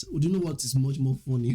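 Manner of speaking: strong Nigerian English accent. Shown as a demonstration. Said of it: "I'm actually speaking in Nigerian accent".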